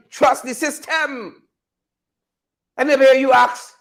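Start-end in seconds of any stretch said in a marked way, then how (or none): 0.1-1.4 drawn-out, softer sarcastic slogan; slow mock slogan. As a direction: stretch it out, sneering at it. Mocking the slogan again.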